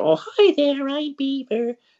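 put-on terrible American accent, squeaky and loud. Retelling an audition with a beaver puppet, terrible mock-American Beaver voice. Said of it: "in my terrible mock American voice".

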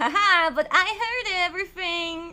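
teasing laughing yell. Retelling what the passport desk lady called out as they walked away, retelling a laughing yell. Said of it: "yells out laughingly, jokingly".

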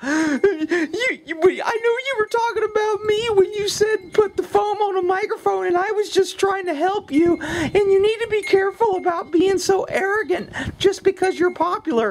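crazy-sounding whining man's voice. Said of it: "that's my crazy whining guy voice".

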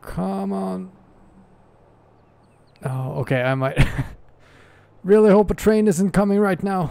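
very high, loud, frantic panicked voice. Playing a game, stuck and hoping no train comes; panicking. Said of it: "I'm panicking".

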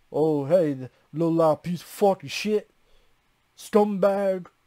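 put-on Brooklyn street accent, slow and drawn out. Asking whether Cabal is from Brooklyn, the speaker mimics how he talks; Cabal impression, Brooklyn accent. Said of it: "is Cabal from Brooklyn? he's talking like".

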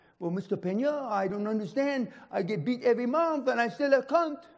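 put-on French film-star accent. Quoting a little Frenchman, talk like a French movie star. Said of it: "he talks like a French movie star".

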